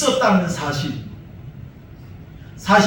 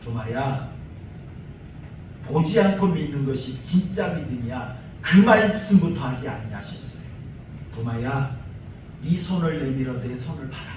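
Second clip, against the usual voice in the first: gentle invitation; 3 semitones lower than usual. Retold or imitated. Jesus gently inviting doubting Thomas to touch, tender. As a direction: lean in and invite him kindly. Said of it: "도마의 눈높이를 맞추며 다가가십니다".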